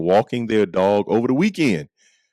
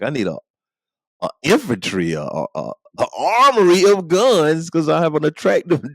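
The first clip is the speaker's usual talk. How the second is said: usual speaking voice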